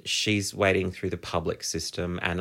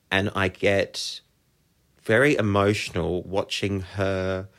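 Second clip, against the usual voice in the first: real tears coming. Real, not acted. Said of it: "I'm getting really emotional now".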